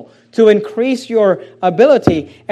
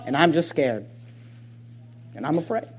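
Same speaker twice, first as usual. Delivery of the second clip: mock frightened murmur, much softer and lower; timid excuse; 8 semitones lower, 13 dB quieter than usual. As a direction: shrink into a small scared voice. Mocking a fearful excuse.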